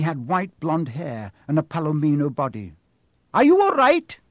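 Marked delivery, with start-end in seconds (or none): 3.3-4.2 much higher, louder gentle centaur voice; a concerned centaur checking on the fallen boy; young centaur. A narrator's reading. Centaur asks the fallen boy if he's hurt, high concerned voice. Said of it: "said the centaur".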